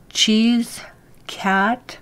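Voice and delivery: whispered, breaking into a laugh; whisper through laughter. Retold or imitated. Daughter retelling her father's wrong answers, whispered with laughter. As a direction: giggle out the wrong answers under your breath.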